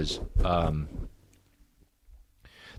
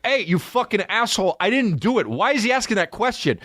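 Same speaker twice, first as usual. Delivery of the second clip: high, yelling defendant, furious and indignant; imagined courtroom outburst; 12 semitones higher than usual. Pretend. Wrongly accused man yelling at the court, furious. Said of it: "I'd be like".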